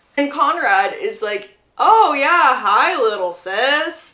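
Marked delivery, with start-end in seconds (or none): 1.7-4.1 very slow, drawn-out, heavily sarcastic tone. Retelling how a character greets his little sister, retelling a very sarcastic line. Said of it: "saying it in a very sarcastic tone".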